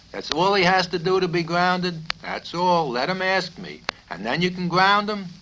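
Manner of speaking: can't believe it's that simple; incredulous. Acted. Yossarian questioning the doctor, high and incredulous.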